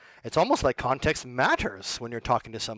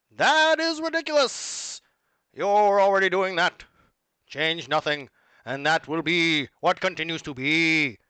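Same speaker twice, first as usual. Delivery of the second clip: a mild, ominous speech to the masses; understated villain-like appeal; put-on voice. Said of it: "I gotta put the voice back on".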